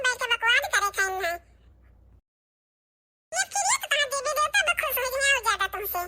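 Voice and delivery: lightly voiced cheeky child; taunting kid voice. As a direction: needle her like a bratty kid. Another child taunting mother.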